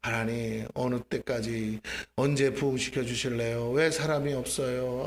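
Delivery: low, slow, heavy-hearted plea; weary prayer. Retold or imitated. Worn-out believer asking God why nobody comes, weary. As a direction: plead wearily, dragging the words out. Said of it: "처음에 기도할 때는 마음이 힘들어요".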